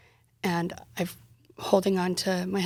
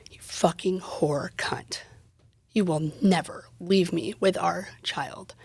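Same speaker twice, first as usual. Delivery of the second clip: whispered; slower than usual. Retold or imitated. Husband's abuse retold as whisper.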